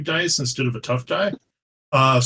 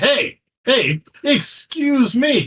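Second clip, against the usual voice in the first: very high, very slow, drawn-out furious voice; 11 semitones higher, 4 dB louder than usual. A player's character interrupts a god in a game, furious. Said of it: "I am full of fury".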